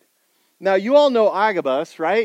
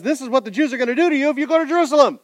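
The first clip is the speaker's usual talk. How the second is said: dramatic prophecy; 8 semitones higher, 5 dB louder, much faster than usual. Acted. Prophet Agabus warns Paul.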